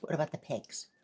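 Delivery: talking through food; words round a bite; mouth full. Real, not acted. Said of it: "I had food in my mouth".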